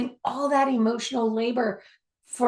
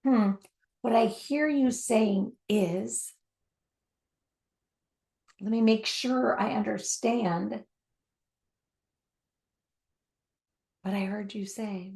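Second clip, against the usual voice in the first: gently mirror back what you heard; patient listener checking understanding; calm mature listening. Shown as a demonstration. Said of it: "Mature listening sounds more like this".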